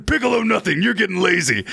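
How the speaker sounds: a hint of a stern mentor; stern Piccolo reply. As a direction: scold lightly like a teacher. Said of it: "it points in my mind and go".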